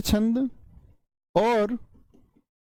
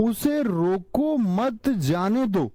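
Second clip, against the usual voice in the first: उसे रोको मत slow and raised, then जाने दो; pause after मत; 3 semitones higher, slower than usual. Shown as a demonstration. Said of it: "विराम या यति कहां पर होती है".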